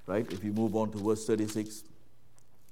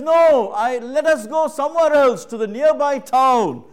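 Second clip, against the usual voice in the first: firm refusal; 13 semitones higher, 14 dB louder than usual. Retold or imitated. Jesus firmly refusing.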